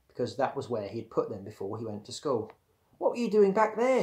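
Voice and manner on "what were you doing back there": higher-pitched demand for an answer. A narrator's reading. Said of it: "he demanded".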